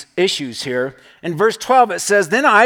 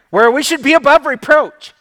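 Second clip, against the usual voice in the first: emphatic preaching; 8 semitones higher, 8 dB louder than usual. Real, not acted.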